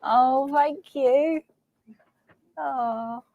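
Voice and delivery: high, slow, drawn-out thank you; touched, emotional thanks. Real, not acted. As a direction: overcome by a kind surprise. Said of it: "I'm upset now".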